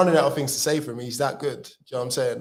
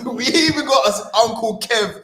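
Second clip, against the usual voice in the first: excited; 9 semitones higher, 9 dB louder than usual. Real, not acted. Mock outrage at statue claim.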